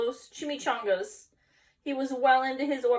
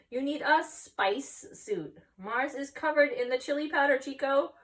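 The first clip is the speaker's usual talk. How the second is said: small dog voice; 5 semitones higher than usual. Acted. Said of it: "said Paquito Tito".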